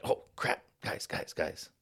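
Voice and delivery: urgent whisper to the buddies; hushed warning. Retold or imitated. Warning drinking buddies of an approaching flashlight, hushed. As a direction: warn them under your breath.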